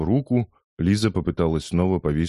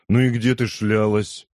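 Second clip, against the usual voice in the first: slow, grudging, mildly menacing; lightly acted sullen reproach; through his teeth; 5 semitones higher, 3 dB louder than usual. A narrator's reading. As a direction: drag it out, sullen and rude. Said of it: "процедил Джим".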